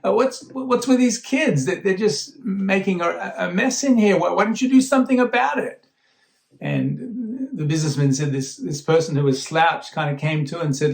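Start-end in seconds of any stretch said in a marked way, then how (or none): 0.0-5.8 retold irritated outburst, pitched much higher; mock-indignant demand at a stranger; annoyed complaint. Businessman snapping at a father on the train, mock indignant. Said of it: "I was getting so annoyed, so angry".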